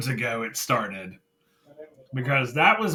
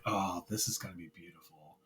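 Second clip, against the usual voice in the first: low, very soft murmur of delight; quiet, awed replay of a fan reaction; hushed anticipation; 6 semitones lower, 14 dB quieter than usual. Retold or imitated. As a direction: savor it under your breath. Retold savouring of what is coming.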